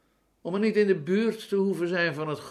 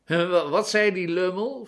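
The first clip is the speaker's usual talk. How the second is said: high, loud, stammered eager question; pitched-up, avid curiosity; 5 semitones higher, 5 dB louder than usual. A narrator's reading. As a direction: ask it greedily, hungry for the gossip. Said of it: "vroegen ze gretig".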